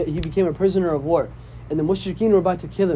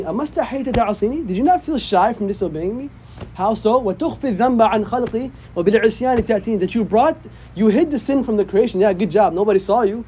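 slightly raised, questioning rebuke; mild reproach; 4 semitones higher, much faster than usual. Acted. Preacher voicing the Lord questioning a sinner, mildly reproachful. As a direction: recite and translate as a pointed reproach.

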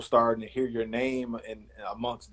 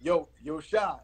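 put-on light Miami accent, quick and casual; playfully imitating a Florida friend in a Miami accent; Edgerrin James Miami accent; faster than usual. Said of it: "Do the, do the accent".

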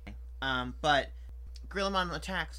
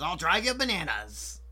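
a hint of a hammy villain; villain pun voice; 3 semitones higher, 6 dB louder, slower than usual. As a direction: ham up the pun slowly. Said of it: "He says".

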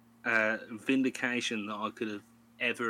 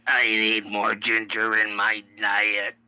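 put-on Glasgow street accent; 8 dB louder than usual. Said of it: "you did that fucking Ned voice".

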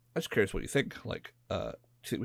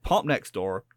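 put-on West Country accent; 4 semitones higher than usual. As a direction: slip into a mild West Country accent for the neighbour line. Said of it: "I went proper West Country".

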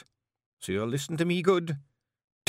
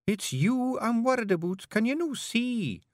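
tearful plea; 11 semitones higher than usual. Acted. Jeanie begs Rob not to fight the monster, tearfully. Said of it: "beginning to cry".

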